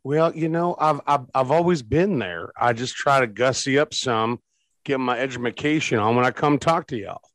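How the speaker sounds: put-on hillbilly accent. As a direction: talk like a backwoods hillbilly. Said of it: "you're stuck in hillbilly accent".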